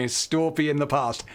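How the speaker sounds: cackling granny voice; pretend Grandma. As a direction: put on a cackly Grandma voice for fun. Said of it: "Should we pretend to be Grandma?".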